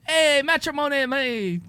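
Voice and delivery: high nasal news read; nasally newscaster voice. Pretend. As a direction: read it like a cheesy local anchor. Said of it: "That's the nasally Mike voice".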